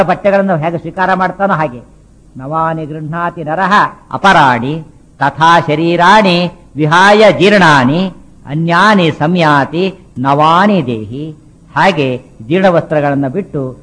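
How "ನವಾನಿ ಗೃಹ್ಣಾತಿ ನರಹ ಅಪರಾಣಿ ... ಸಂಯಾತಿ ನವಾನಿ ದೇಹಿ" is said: slow, measured Sanskrit recitation; verse recitation. Acted. Preacher quoting the Gita to listeners, slow verse recitation. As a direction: recite it slowly, drawing out each word.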